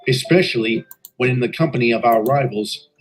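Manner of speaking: steady storytelling voice, looking back; story narration. A narrator's reading. Engine narrator telling listeners of the inspection, calm narration. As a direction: recount the tale evenly like a memoir.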